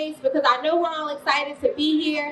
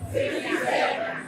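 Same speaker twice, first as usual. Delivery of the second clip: crowd call-back; 4 dB quieter than usual. Shown as a demonstration. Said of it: "Can somebody say sixty seconds".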